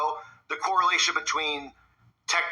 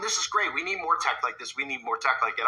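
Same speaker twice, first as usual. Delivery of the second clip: sarcastic cheerleader for new tech; mock enthusiasm. Commentator mocking people who cheer AI voices, hammed-up excitement. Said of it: "everybody out there is just going".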